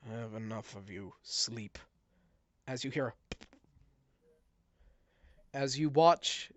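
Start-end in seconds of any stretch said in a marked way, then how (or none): 0.1-1.8 low, soft, final; simple cold command. Acted. Mayor putting Giblet to sleep, low and soft. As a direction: lower and softer, ending it. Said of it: "you hear him simply say".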